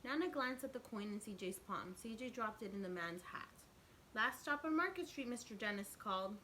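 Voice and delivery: lively storybook narration; teacher reading a picture book aloud; reading to children. A narrator's reading. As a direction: read it out to the kids with expression. Reads picture book to class.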